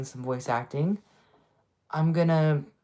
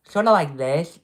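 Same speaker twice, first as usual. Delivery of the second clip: Sid the Sloth mix; 7 dB louder than usual. Shown as a demonstration. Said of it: "like this one, which is, like, a combination between Sid the Sloth and".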